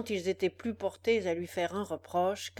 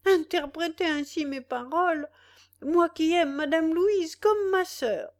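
tearful protest; 6 semitones higher, 4 dB louder than usual. A narrator's reading. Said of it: "d'une voix entrecoupée par les pleurs".

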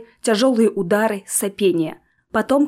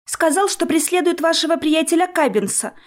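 thin little voice; 6 semitones higher than usual. A narrator's reading. Bobby continues in thin voice.

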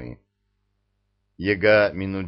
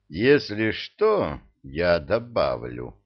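slow menace; 2 semitones lower, slower than usual. Acted. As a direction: drawl the threat. Ilya threatens slowly.

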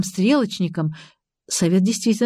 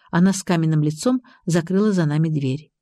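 ordinary delivery

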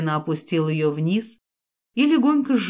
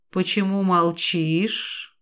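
hissing serpent dragon; much slower than usual. Acted. The naga questions her.

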